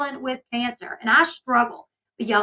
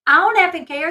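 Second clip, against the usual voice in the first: mock angry; 5 semitones higher, 7 dB louder than usual. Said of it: "And she's like".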